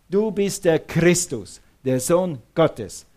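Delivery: slow, weighty stress on "Christus" and "Sohn"; nachdrückliche Betonung. Acted. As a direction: declare it emphatically as Peter, word by word. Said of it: "Er will betonen". (langsam und nachdrücklich betont)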